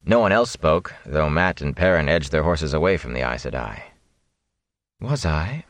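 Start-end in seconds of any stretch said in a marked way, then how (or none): 5.0-5.6 absently. Acted. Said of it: "Moraine said absently".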